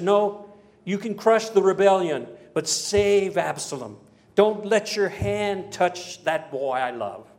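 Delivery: earnest command, slowing down as it goes; emphatic royal plea. Acted. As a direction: plead firmly, stretching the key words. King pleading for his son's life.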